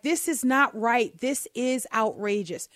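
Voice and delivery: slow, emphatic mild outrage; vexed. Retold or imitated. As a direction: voice measured indignation, word by word. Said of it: "maintain that vexation where you're like".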